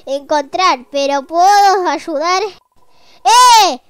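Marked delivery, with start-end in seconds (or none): 3.2-3.8 excited call. Pretend. Calling out in game.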